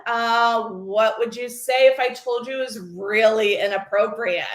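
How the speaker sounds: hesitant "Uh", then a careful, level question; lightly voiced teacher, stressing the key words; teacher hat. Mom gently testing her daughter, in teacher mode. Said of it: "Teacher hat again".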